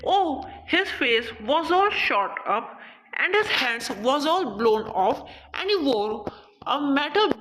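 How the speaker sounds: slow, measured poem reading; poem recitation. Acted. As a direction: read the verse out slowly, phrase by phrase. Recites English poem between Hindi explanations.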